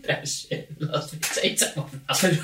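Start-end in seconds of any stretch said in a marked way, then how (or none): 1.2-2.4 Cockney "Take your top off, love", unvoiced, laughing; cheeky Cockney builder line. Shown as a demonstration. Mocking a Cockney builder, laughing Cockney. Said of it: "You can't say Cockney".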